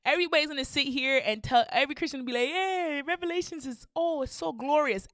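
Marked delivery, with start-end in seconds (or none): 2.5-5.1 mock gushing. Mocking cheery Christians.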